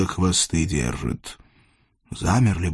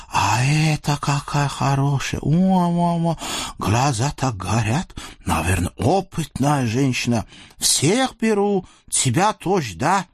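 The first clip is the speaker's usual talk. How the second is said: lecherous sultan; 4 semitones higher than usual. Acted. Sultan leers at the captive women, high and gloating. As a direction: purr over the captives like a greedy sultan.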